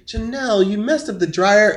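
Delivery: a hint of a scolding mom, name first; name as a reproach. Shown as a demonstration. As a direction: open with her name like a mild reproach. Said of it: "but if I say".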